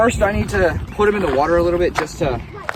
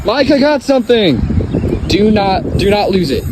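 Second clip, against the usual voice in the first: excited; 3 semitones higher, 3 dB louder than usual. Real, not acted. Fish on the line, excited.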